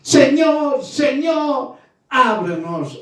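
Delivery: acted pleading call, dropping on the last word; imitated crying out. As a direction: call out like those shut outside, without full volume. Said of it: "diciendo, gritando".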